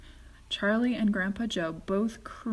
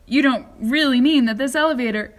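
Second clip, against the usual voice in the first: louder, anxious protest; disbelieving old man; shouting in alarm; 3 semitones higher, 11 dB louder than usual. A narrator's reading. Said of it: "shouted Grandpa Joe".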